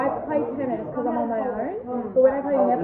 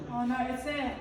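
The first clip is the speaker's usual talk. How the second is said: hushed scared whisper; 3 semitones lower, 11 dB quieter than usual. Real, not acted. Spider spotted in dark.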